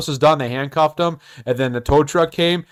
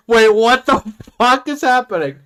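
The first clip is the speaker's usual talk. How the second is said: bewildered; 5 semitones higher, 3 dB louder than usual. Retold or imitated. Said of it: "it was like".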